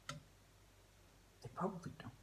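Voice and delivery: slow whispered aside; a sly whispered afterthought. Real, not acted. Aside about England.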